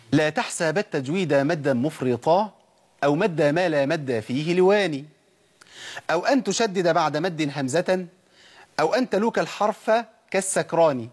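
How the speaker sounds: slow, measured verse with drawn-out vowels; classical verse recitation. Acted. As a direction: recite the didactic poem deliberately, line by line. Recites a didactic poem on tajweed.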